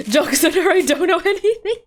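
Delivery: laughing. Real, not acted. Laughing at game dialogue.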